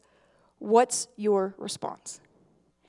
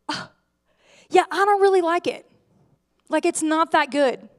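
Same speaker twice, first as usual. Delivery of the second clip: higher, careless brush-off; dismissive aunt; 4 semitones higher, 3 dB louder than usual. Retold or imitated. An aunt waving off her niece's craft, careless and higher. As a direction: shrug off the gift without caring.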